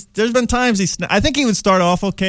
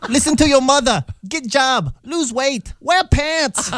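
put-on higher, slow Asian mother accent, scolding; funny Asian mother accent; 6 semitones higher, slower than usual. Comic imitating his mother scolding him, in Asian mother accent. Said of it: "that funny mother accent".

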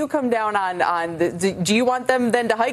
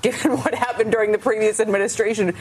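laughing. Real, not acted. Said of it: "I'm trying not to laugh".

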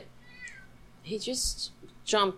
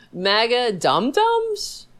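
laughing mockery; 5 semitones higher, 6 dB louder, slower than usual. Real, not acted. Laughing mockery of MAGA fans.

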